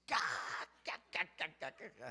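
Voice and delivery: a run of cackling ca ca ca laughs; retold fit of laughter; spelt-out laugh. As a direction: laugh it out syllable by syllable.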